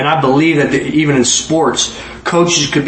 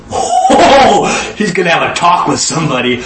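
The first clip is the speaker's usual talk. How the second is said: put-on laughing child. Kids spot dad's ring at dinner.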